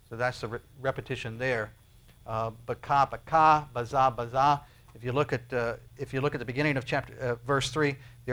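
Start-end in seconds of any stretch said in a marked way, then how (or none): 2.3-4.6 baka baka, baza baza said as Hebrew sounds; Hebrew words. Shown as a demonstration. Preacher sounding out the Hebrew words for the congregation, carefully. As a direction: pronounce baka and baza carefully, twice each. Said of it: "The repetition of the word".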